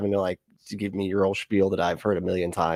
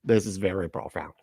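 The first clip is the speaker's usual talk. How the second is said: mock-solemn prophecy; 3 semitones lower, 4 dB quieter than usual. Host mockingly echoes the prophecy clip.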